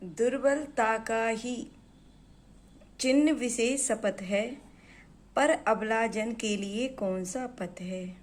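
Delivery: measured, deliberate reading of verse; poem read aloud to students; poem recitation. Acted. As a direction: recite the couplet with weight.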